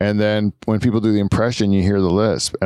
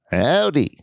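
Shazma impression; 6 semitones higher than usual. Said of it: "everyone can do a Shazma too".

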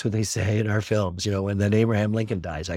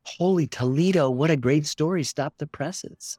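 mock excitement; 5 semitones higher than usual.

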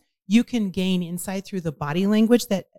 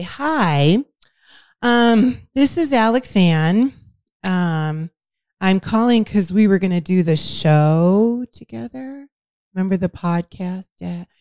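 awkward voicemail; 3 dB louder, slower than usual. Shown as a demonstration. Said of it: "I get a voicemail from you that says".

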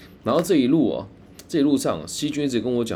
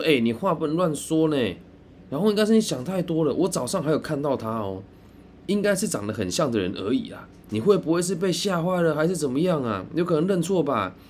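imitating a flustered friend, pitched up and fast; agitated retort; 6 semitones higher than usual. Friend gets worked up denying the narrator's story, higher and faster. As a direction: brush off the accusation, getting worked up. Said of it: "他有点激动哦".

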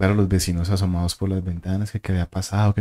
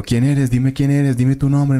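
confronting demand; 5 semitones higher, slower than usual. Retold or imitated. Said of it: "Y yo, empiezo a encararlo".

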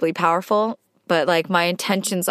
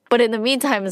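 starting to cry; 4 semitones higher than usual. Real, not acted. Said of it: "sorry, I'm crying".

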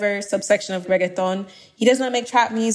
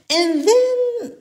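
laughing; 13 semitones higher than usual. Real, not acted. Laughs before next pick.

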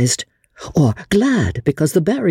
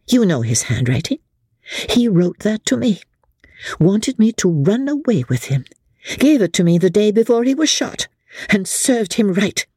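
much higher, scornful tirade; Becky scornful; 7 semitones higher than usual. A narrator's reading. Becky tearing down Amelia's husband, scornful tirade. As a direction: pour scorn on the dead husband.

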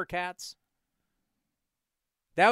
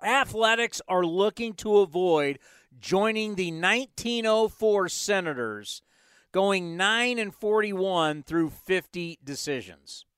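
reluctant reading. Shown as a demonstration. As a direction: read it out like a chore. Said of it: "Fine, I'll read it".

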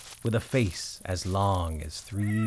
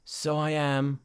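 put-on old tired dog; 7 semitones higher, slower than usual. The dog answers the donkey.

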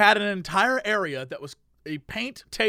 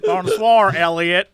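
louder sinister villain greeting; Mister Robot villain; 2 semitones lower, 4 dB louder, slower than usual. Retold or imitated. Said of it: "the villain in Mister Robot".

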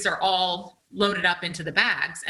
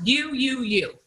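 higher, repetitive accusing jabs; mock finger-pointing tirade; retold angry blaming; 6 semitones higher, slower than usual. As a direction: act out pinning it all on him. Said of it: "I was so mad at him".

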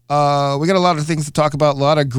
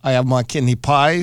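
badly faked Cockney-style British accent; poor mock British accent. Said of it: "my accent's so bad".

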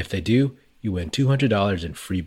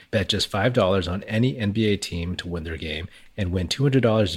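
upbeat sponsor read. Acted. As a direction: sell it like a radio spot.

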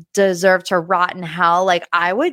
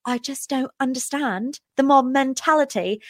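mock Lisa; 4 semitones higher, 4 dB quieter than usual. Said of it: "And Lisa's like".

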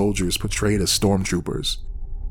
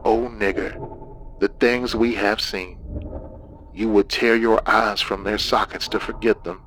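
breathy demonic voice. Acted. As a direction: breathe it into his ear, creepy. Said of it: "breathed into my ear".

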